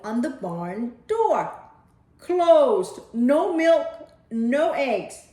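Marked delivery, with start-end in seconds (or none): 2.2-5.3 loud, high protest sign; bold cows' note. Acted. Cows on strike posting a note, loud. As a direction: declare it like a strike notice.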